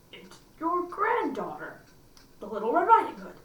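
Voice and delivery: put-on wolf lightly faking a sweet girl; faked girl voice. Wolf at the door faking Little Red's voice. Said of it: "counterfeiting her voice".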